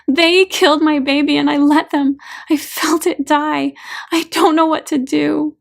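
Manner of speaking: weeping through her confession; sobbing anguish. A narrator's reading. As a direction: sob it out in despair. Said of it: "gasps and sobs".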